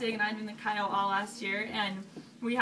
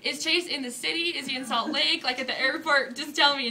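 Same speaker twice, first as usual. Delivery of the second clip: raised-pitch retold pleading for answers; mock interrogation, higher voice; insistent questioning; 4 semitones higher, 5 dB louder than usual. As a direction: press for an answer, a touch louder. Retold pressing her friend for answers.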